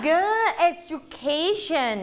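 slow, drawn-out "good education"; slow model word. Shown as a demonstration. Teacher modelling a word for pupils to copy, slowly. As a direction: stretch "education" out for repeating. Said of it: "อ่านคำนี้ตามควันค่ะ".

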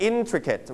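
"intricate" with a high "in", falling after; stress on first syllable. Shown as a demonstration. Teacher modelling intricate for students, high stress on "in". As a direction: lift the first syllable of "intricate", let the rest drop. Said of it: "เสียงสูงที่พยางค์แรก".

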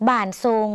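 "บานทรง" as an isolated word, last syllable held; pronunciation model. Shown as a demonstration. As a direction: say "บานทรง" carefully for learners to repeat. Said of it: "ออกเสียงไปพร้อมกัน".

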